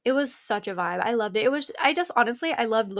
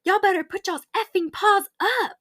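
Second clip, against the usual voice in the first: higher, mock-bossy singer; a pop star bossing; 9 semitones higher than usual. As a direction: imitate the star ordering the crowd. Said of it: "she's like".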